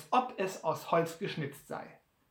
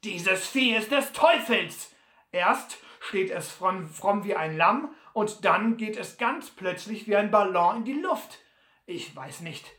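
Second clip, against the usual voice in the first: lauter, wütender Butler; ergrimmt; 3 dB louder than usual. Acted. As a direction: zornig schimpfen. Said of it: "rief ergrimmt". (Butler schimpft nach dem Sturz ergrimmt)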